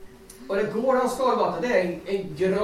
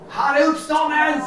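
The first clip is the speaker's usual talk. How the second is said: high, loud joyful cry; retold joyful shout to the guide; shouted proclamation; 7 semitones higher, 5 dB louder than usual. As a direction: shout it out in triumph. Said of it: "skrek han ut till guiden".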